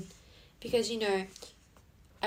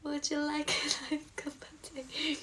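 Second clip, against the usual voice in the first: slow, high, hushed mock British-style accent; bad accent; 5 semitones higher, 5 dB quieter, slower than usual. Offering viewers a drink, slow badly faked accent. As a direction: offer it slowly in a soft put-on accent. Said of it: "I'm really bad with accents".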